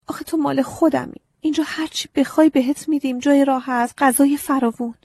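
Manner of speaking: put-on high, earnest child's voice confessing; young girl pleading. A narrator's reading. Agnes confessing to the scarecrow, high childlike pleading. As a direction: speak up as a small girl owning up.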